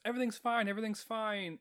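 high, sing-out company reassurance; imitated bosses insisting all is well; mock reassurance. Mimics bosses' false reassurance.

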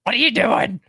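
high-pitched baffled complaint; playfully put-upon, high voice; mock exasperation. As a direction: pitch it up as if appalled by a bad note. Mock reaction to the singer.

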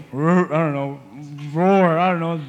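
unsure bear roar. Pretend. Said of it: "I don't know what bears make".

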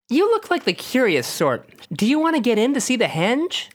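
lightly voiced gentle woman; soft lady voice. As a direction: clear but soft, a hint of a lady. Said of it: "she says in a clear but soft voice".

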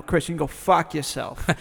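corrective Boston accent with an open "ah" in "fuck"; Boston accent demo. Shown as a demonstration. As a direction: show how Boston says it, vowel wide open. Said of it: "you didn't do it right".

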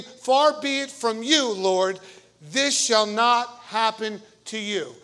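mock shouted rebuke of the teacher; Peter shouting. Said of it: "That meant he was shouting".

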